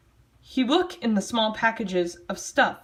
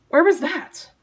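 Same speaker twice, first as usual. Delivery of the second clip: mock wonder; 8 semitones higher, 6 dB louder than usual. Mock-dramatic puzzling over a place.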